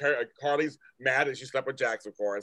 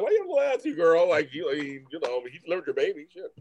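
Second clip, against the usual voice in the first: higher, mock sassy scolding of a girl; 3 semitones higher than usual. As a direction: call her out with mock sass. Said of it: "I'm like".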